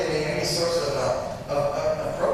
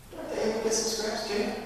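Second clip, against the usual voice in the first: retort; 8 semitones higher, 4 dB quieter than usual. Retold or imitated. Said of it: "She comes right back in".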